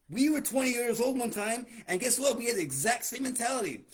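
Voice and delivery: loud, fired-up rant. Real, not acted. Ranting at young listeners.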